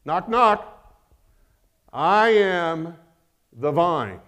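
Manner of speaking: a hint of a playful divine voice; speaking as Jesus. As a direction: announce yourself gently as the vine. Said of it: "not trying to be weird or condescending by talking like that".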